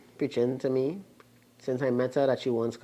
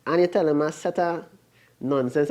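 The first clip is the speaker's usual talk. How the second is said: retorting; 4 semitones higher than usual. Retold or imitated. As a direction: fire it back at her. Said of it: "I didn't say that".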